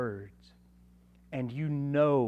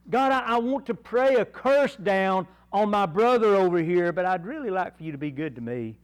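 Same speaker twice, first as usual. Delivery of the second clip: mock hypocritical prayer; 4 semitones higher, 4 dB louder than usual.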